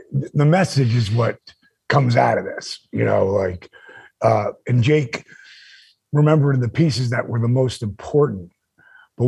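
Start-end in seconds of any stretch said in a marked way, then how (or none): none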